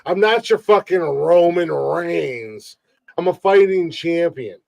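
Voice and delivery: wrestling promo. Pretend. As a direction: brag like a wrestling champ. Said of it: "Let's hear it".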